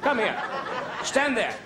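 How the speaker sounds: hammed-up classroom scene; teacher and pupils. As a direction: bark teacher lines, chirp the answers.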